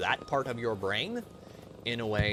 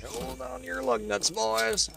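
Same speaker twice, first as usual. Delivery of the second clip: high, slow drawn-out catchphrase; hammy cowboy voice; 12 semitones higher, slower than usual. Acted. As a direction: ham up a rowdy driver. Catchphrase in put-on voice.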